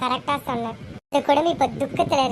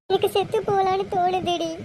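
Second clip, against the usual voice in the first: higher, tearful despair; 4 semitones higher than usual. Acted. Elder sister confides her despair, tearful. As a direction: voice despair close to crying. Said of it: "சரி அழுகாதக்கா".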